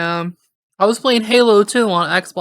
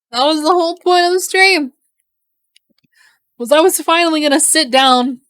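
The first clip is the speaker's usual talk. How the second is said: frustrated rant; 7 semitones higher, 5 dB louder than usual. Real, not acted. Frustrated rant about ruined stream.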